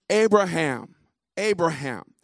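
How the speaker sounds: loud, high, urgent double call; calling from heaven. A narrator's reading. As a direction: cry the name out twice, projecting hard. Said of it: "called unto him out of heaven".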